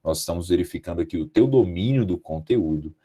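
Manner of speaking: low, soft, tactful interjection; hushed, courteous committee-member voice; polite examiner interrupting. Retold or imitated. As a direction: gently cut in on a student with formal praise. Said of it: "eu falei assim".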